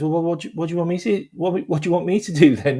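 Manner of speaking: high, stumbling puzzled question; retold confusion. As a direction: imitate a flustered manager. Manager asks his task, retold.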